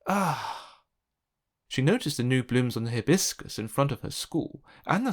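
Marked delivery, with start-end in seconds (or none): 0.1-0.8 exasperated groan. Acted. Child exasperated at others' blooms.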